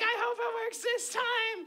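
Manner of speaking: high sarcastic comeback; lightly sarcastic jab; mock sarcastic. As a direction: snark it back. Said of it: "I was like".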